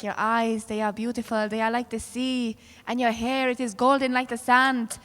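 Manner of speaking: woo her gently, as a parody; imitated romantic wooing. Men in Rome or Paris wooing women, imitated romantic talk. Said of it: "you hear the way they talk to the women".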